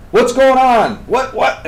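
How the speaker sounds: retelling a flustered passenger's outburst; upset and confused. Retold or imitated. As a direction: fire questions like a jumpy passenger. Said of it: "He's getting upset".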